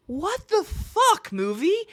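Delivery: high, slow drawn-out what the fuck; stretched disbelief. Retold or imitated. Reviewer baffled at the ending, slow disbelieving cry. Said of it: "I was like".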